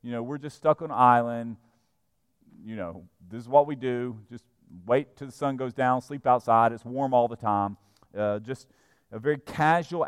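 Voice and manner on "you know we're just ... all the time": low, unhurried shrug of a voice; laid-back islanders. Acted. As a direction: imitate easygoing island indifference. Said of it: "very laid back, whatever goes atmosphere".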